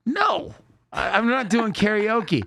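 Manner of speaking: playfully refusing, voice shooting up; mock refusal. To Brett suggesting karaoke, squeaky mock refusal. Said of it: "And I'm like".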